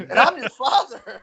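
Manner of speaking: laughing dad imitation. Dad's proud line, retold laughing.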